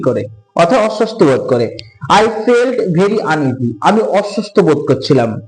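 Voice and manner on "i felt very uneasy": slow reading aloud. Shown as a demonstration. Teacher rereads text slowly.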